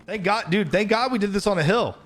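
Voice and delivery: high, excited relief; relieved excitement. Real, not acted. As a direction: gush with relief.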